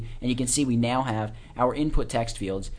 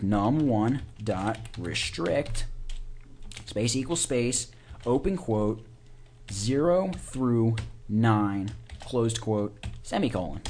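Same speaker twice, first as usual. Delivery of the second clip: slow dictation with punctuation; slower than usual. Shown as a demonstration. Dictating code syntax aloud.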